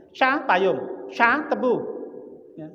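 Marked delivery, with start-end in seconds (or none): 0.1-0.4 "Cha" in the tone that means umbrella. Shown as a demonstration. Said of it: "Intonasinya pas". 1.1-1.5 "Cha" in the higher, louder tone for sugarcane. Shown as a demonstration. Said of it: "Intonasinya pas".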